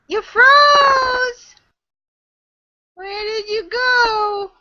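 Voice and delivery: real surprised call out. Real, not acted. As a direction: shout it so she hears over the lag. Calling out to frozen Kelly.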